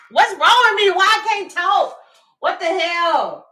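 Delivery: high, loud laughing squeals; can't get words out for laughing; laughing so hard the words squeak; laughing fit. Real, not acted. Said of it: "Don't know why I'm whispering".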